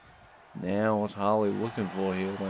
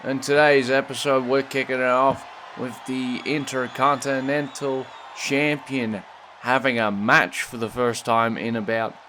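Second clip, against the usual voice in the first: put-on American accent. Commentator opening the show in an American accent. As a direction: welcome the crowd in a mock American accent. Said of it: "why I'm using the American accent".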